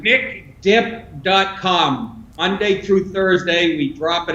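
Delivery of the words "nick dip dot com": spelled out very slow, each piece of nick dip dot com separate; slow it down so listeners catch the address; slow plug. Shown as a demonstration. Guest giving his website to listeners, very slow. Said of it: "what's the plug".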